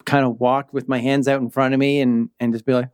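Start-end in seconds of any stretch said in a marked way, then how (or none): none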